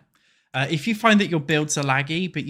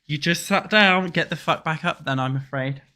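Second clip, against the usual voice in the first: half-joking drill sergeant, louder; tough motivation coach; 2 semitones higher, 3 dB louder than usual. Acted. Streamer yelling at chat to do squats, mock drill sergeant. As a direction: bark at lazy viewers to get up. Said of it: "that tough motivation".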